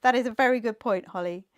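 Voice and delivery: firm, clear classroom announcing; teacher voice. Real, not acted. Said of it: "my teacher voice is on tonight".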